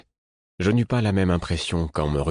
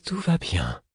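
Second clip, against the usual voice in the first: lightly put-on amused reassurance; light imitation of someone amused; imitating amused tone; 2 semitones higher, slower than usual. A narrator's reading. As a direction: borrow a friend's amused tone, almost managing it. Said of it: "Je tentai d'imiter son ton amusé".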